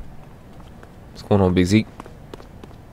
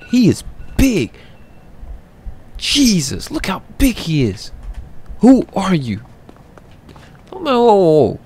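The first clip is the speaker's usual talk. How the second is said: amazed; 12 semitones higher than usual. Real, not acted. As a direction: gasp it out, wide-eyed at a giant. Huge wrestler appears in game.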